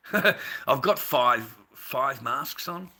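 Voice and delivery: slow, loud laughing words; laughing through masks. Real, not acted. Laughing to chat about wearing masks.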